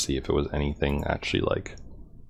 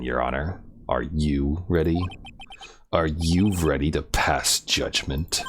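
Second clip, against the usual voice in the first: a hint of a cold prosecutor; lightly edgy prosecutor; slower than usual. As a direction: drag the question out coolly. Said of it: "what kind of voice should I give this guy".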